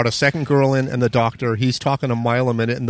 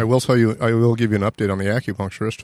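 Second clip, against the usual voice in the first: talking while chewing candy; mouth full. Real, not acted. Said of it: "What are you eating".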